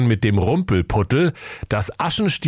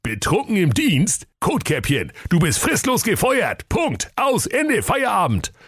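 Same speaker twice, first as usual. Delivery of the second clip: rising higher with each word, hammed-up rage; mock furious firing; 11 semitones higher than usual. Jakob firing Kotkäppchen on the phone, hammed-up anger. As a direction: fire her word by word, mock fury.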